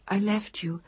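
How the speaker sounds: soft whispered admission. A narrator's reading. Woman whispers her confession to the man she left. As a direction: barely voice the confession.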